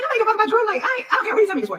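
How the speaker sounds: high-pitched mock exasperation; retold dismissal. Portia telling Dennis nobody cares about Drew, exasperated and high.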